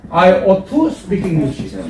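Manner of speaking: words spaced out slowly for repeating; slow model sentence. Shown as a demonstration. Teacher models the phrase for the class, slowly. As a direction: say it slowly, one word at a time. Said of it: "팔십 프로는 I ought to입니다".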